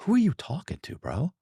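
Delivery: high, disbelieving; who are you kidding, sky high; mock-baffled at the husband's lie; incredulous. Incredulous retort.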